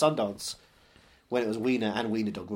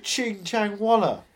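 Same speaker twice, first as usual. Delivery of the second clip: retold mock Asian accent; 7 semitones higher, 5 dB louder, slower than usual. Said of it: "he said".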